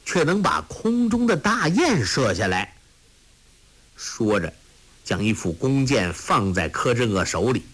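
plain reading voice

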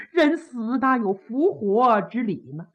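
acted weary protest; sorrowful reproach. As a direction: plead with grief, falling at the end. Princess reproaches joking at funeral.

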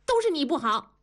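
high accusing cry; child's shout. A narrator's reading. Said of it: "大声地喊". (小孩大声喊着责怪)

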